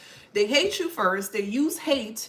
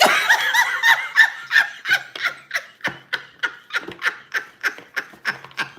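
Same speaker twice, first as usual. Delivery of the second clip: long high laugh; 6 dB louder than usual. Real, not acted.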